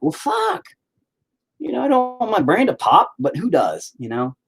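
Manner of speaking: way up high, squeaky mock panic; mock panicked outburst. Joking to viewers about migraines, squeaky high mock panic. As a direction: squeal it like your brain might pop. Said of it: "I'm like".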